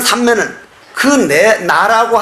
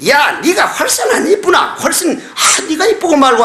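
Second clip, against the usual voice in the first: eager laughing reply; 6 semitones higher than usual. Acted. Husband answers in acted story.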